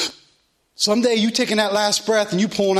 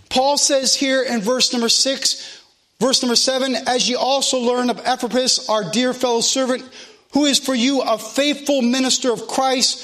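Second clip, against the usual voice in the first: raised, steady scripture-reading cadence; preaching; 4 semitones higher than usual. Real, not acted. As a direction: preach it out to the congregation in long, driving phrases. Preaches and reads scripture aloud.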